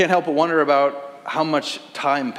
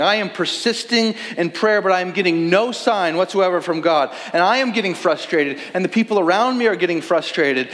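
frustrated lament; 4 semitones higher than usual. Acted.

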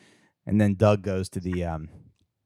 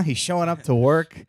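loud, raised-pitch comic rant; mock outrage; 6 semitones higher, 4 dB louder than usual. Podcaster berating senator for his clothes, mock outrage. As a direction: scold him with hammed-up indignation.

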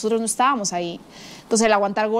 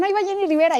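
excited whisper-shout; 9 semitones higher than usual. Retold or imitated. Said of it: "y me dijeron".

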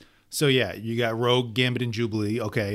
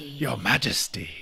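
whispered. Acted. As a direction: breathe it like an awed subject. Echoing the whispered greeting.

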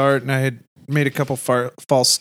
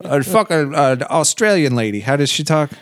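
mocking tourist; 4 semitones higher than usual. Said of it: "you didn't go on vacation to get fucked".

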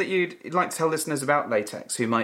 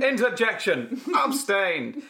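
mock courtroom call; 6 semitones higher, slower than usual.

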